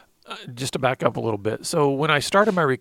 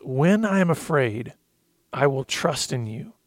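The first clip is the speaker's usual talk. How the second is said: slow heartfelt reading; slower than usual. Real, not acted. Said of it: "I'm gonna get emotional".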